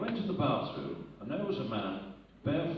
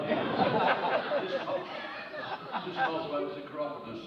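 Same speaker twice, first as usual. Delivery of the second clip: laughing; 3 semitones higher, 4 dB louder, slower than usual. Real, not acted. Restarting joke, cracking up.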